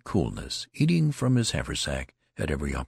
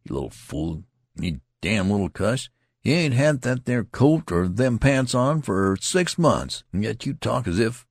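scolding; 5 semitones higher, 4 dB louder than usual. Acted. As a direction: dress down the greenhorn. Tall soldier scolding the youngster.

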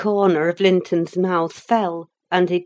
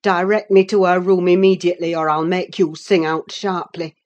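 angry threat; 7 dB louder than usual. Acted. Nelly threatening Linton.

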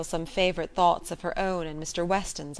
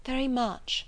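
gently; 6 semitones higher than usual. A narrator's reading. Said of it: "said Missus Weston gently".

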